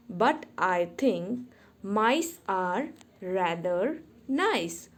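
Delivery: slow, measured verse with pauses between phrases; children's poem read out line by line, unhurried; poem recitation. Shown as a demonstration. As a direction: recite it slowly for young pupils to follow. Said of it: "I will be reciting the poem".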